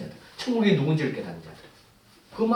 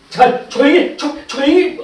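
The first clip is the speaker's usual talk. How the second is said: raised, higher-pitched shushing; scolding hush; 9 semitones higher, 10 dB louder, slower than usual. Acted. Crowd tries to silence the blind man, scolding. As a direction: cut someone off with an urgent telling-off. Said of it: "막 꾸짖고 조용히 해요".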